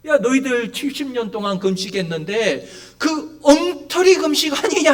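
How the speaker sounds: mildly acted divine scolding, rising in pitch; preacher imitating a sharp reproach; rebuking. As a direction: call them out on a sham. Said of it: "하나님은 막 책망을 하세요".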